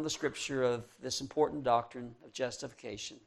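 quiet pastoral prayer with pauses between phrases; closing prayer. Real, not acted. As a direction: pray aloud for the congregation, letting phrases settle downward.

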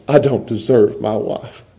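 humble gratitude. Shown as a demonstration. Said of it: "you put on the grace".

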